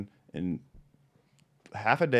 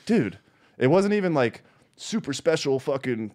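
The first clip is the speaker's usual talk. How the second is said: incredulous rant; 5 semitones higher than usual. Retold or imitated. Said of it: "I was like".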